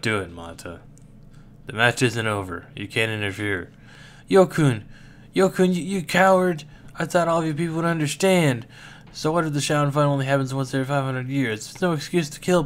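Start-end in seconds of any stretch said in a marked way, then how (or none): 4.3-8.7 angry. Acted. Furious accusation.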